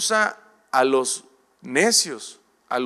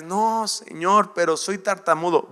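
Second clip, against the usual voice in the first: whiny plea; 4 semitones higher than usual. Acted. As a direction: drag out the excuse to the Lord. Moses pleads he stutters.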